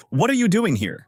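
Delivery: a touch of startled disbelief; surprised. A narrator's reading. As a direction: ask it with mild narrated surprise. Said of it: "gets very surprised and says to him".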